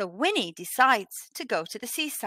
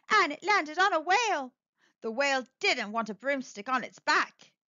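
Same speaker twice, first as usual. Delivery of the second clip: lively storybook reading voice; a picture book read aloud; story narration; 3 semitones higher than usual. Acted. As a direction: read it to children, bright and animated.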